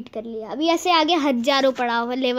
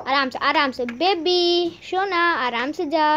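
slow, sweet-talking plea; tender coaxing. Real, not acted. Coaxing character with pet names. (प्यार से पुचकारते हुए)

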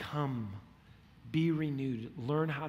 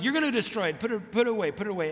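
mock dad voice; 4 semitones higher, 5 dB louder, faster than usual. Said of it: "And I'd be like".

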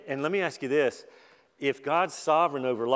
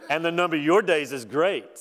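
dry mocking emphasis on "your"; God's sarcasm toward Job, a bit louder; sarcastic; 3 semitones higher, 4 dB louder than usual. Shown as a demonstration. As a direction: rub it in with mock praise. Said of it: "if you ever wondered if God was sarcastic".

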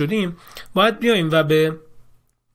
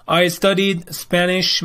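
slow dictation read; 2 semitones higher, much slower than usual. Shown as a demonstration. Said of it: "reading answers slowly".

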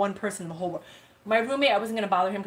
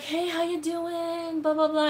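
friend's greeting; 8 semitones higher, slower than usual. Retold or imitated. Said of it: "So she's like".

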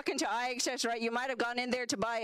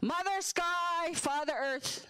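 mock solemn invocation; 5 semitones higher, much slower than usual. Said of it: "get in touch with the spirit world".

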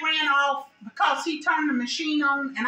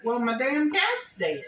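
upset; slower than usual. Retold or imitated. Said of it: "Like, like upset".

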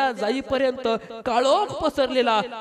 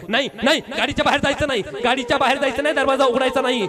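a touch louder, anxious pleading; urgent fear; 3 semitones higher, 4 dB louder, faster than usual. Acted. Wife begs husband not to step outside, anxious. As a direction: beg him not to open the door.

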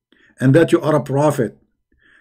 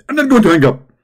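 higher, louder excited preacher impression; Zakir Naik; 5 semitones higher, 3 dB louder, faster than usual. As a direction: lecture like a fired-up debating preacher. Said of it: "If we ask Zakir Naik".

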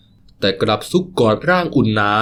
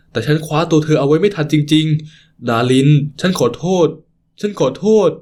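slow tearful apology; slower than usual. Acted. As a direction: beg forgiveness through tears, voice rising at the end. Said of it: "พร่ำคำขอโทษทั้งน้ำตา". (ขอโทษช้าๆ ทั้งน้ำตา เสียงสูงขึ้นตอนท้าย)

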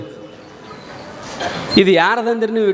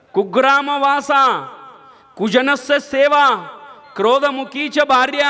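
shloka recital; 3 semitones higher than usual. Shown as a demonstration. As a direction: intone the scripture line by line. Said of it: "ಶಾಸ್ತ್ರದೊಳಗೆ ಚಂದ ಬರೀತಾರ".

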